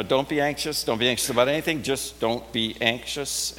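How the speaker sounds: flat, bare command with no comfort. Shown as a demonstration. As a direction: say it as a cold order from nowhere. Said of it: "when that just hangs out there in space".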